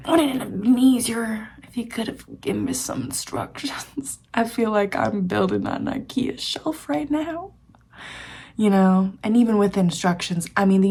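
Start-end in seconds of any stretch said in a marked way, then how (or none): 0.1-7.5 higher-pitched comic lament with laughter; laughing complaint. Real, not acted. Vlogger comparing life to shelf building, laughing complaint. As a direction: complain high and laugh through it. Mock complaint about life's missing manual.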